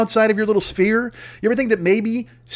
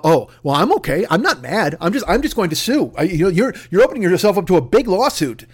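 mock calm threat. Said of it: "that dumb shit about".

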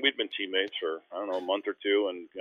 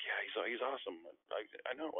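quoting quietly; 12 dB quieter than usual. Retold or imitated. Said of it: "He's like".

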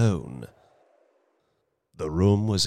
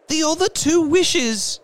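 rapid; 5 dB louder than usual. Acted. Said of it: "she replied rapidly".

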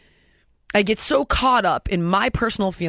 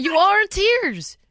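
slow, higher and louder, leaning on ARE; emphatic insisting; 11 semitones higher, 4 dB louder, slower than usual. Real, not acted. Host insisting to Kathy that Janice is crying, emphatic and slow. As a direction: insist on it, stretching each word.

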